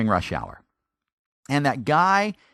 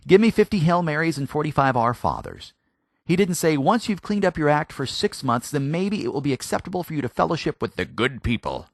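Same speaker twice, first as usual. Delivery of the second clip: mock legalistic demand; 4 semitones higher than usual.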